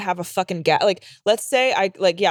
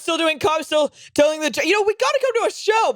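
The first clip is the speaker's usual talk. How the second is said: relative voice; 8 semitones higher than usual. Retold or imitated. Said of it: "quoting a relative".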